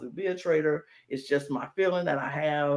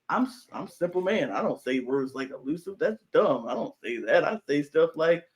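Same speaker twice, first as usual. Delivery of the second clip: playing dumb. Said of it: "he was playing dumb".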